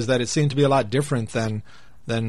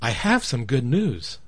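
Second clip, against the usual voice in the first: slow, clear reading; slower than usual. Shown as a demonstration. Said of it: "So the woman might say".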